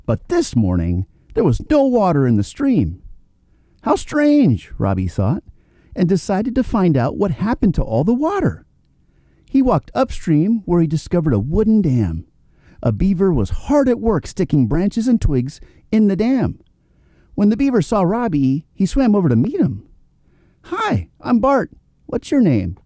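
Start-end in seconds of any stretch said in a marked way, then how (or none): 3.8-4.7 puzzled. Acted. Robbie puzzled at dry stream. 20.6-22.8 beaver voice. Acted. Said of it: "said the beaver".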